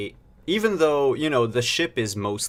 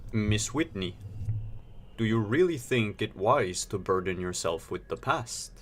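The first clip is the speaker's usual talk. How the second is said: flat robot voice, softer; 5 dB quieter than usual. Acted. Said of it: "a robotic voice".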